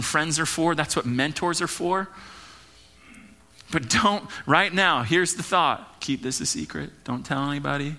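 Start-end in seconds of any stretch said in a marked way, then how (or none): 6.0-7.9 mock secret. Mock confiding advice to congregation.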